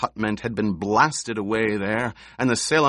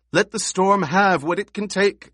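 high, loud scream of false terror; 10 semitones higher, 5 dB louder than usual. A narrator's reading. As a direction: shriek it out in feigned fear. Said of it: "she screamed".

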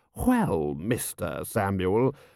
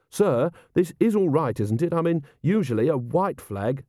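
higher-pitched earnest officer; earnest officer, doubtful; 6 semitones higher than usual. Acted. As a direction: query your superior politely. Carrot questions the white flag.

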